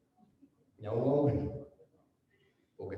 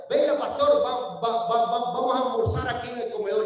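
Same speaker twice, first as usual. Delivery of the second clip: host inviting the pastor. Retold or imitated. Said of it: "y ustedes digan".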